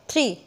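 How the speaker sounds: "थ्री" said short in one jerk; quick jerk. Shown as a demonstration. Teacher shows the class a quick, short "थ्री". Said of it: "बिल्कुल झटके से बोल दिया".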